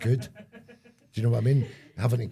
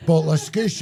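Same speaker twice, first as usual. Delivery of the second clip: loud shop worker; 6 semitones higher, 8 dB louder than usual. Pretend.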